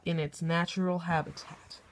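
hushed wildlife narrator voice; nature documentary. Acted. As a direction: narrate like a nature show host.

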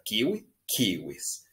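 slow, careful kiwi, kiwis; model pronunciation. Shown as a demonstration. Teacher modelling words for the class. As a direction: say "Kiwi, kiwis" slowly and clearly. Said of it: "Repitan después de mí".

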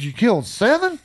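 high, rising astonished question; can't believe the number he just heard; surprised disbelief. Retold or imitated. Hunter hearing his buddy killed seven, stunned and high.

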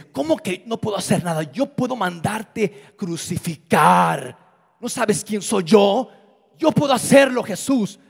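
mock Pilate demanding to be feared; angry Pilate. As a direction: Pilate scolding Jesus with mild anger. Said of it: "Pilato se enoja".

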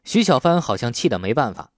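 usual speaking voice

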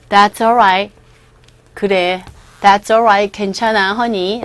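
lightly acted, calm "it's okay"; gentle reassurance. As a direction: comfort a friend, voice dropped low. Voices friend comforting upset Catherine.

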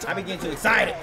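low, hushed, winding down; calming himself down. Real, not acted. Gamer telling viewers his voice is worn, low and subdued. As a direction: pull the voice right back. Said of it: "I gotta calm down".

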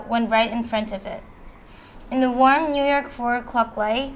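measured poetry recital, phrase by phrase; recited love poem with lifted line openings; poem reading. Acted. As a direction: read the poem aloud to listeners, pausing between lines.

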